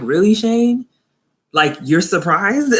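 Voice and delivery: high-pitched doubting "really", then drawn-out question; mock incredulity. Vlogger doubting Shane's surprise, mock incredulous. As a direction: question it as if it is absurd.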